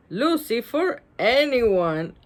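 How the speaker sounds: slow, breaking into laughter; giggling while reading; laughing. Real, not acted. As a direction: laugh through the words. Laughing at mean joke.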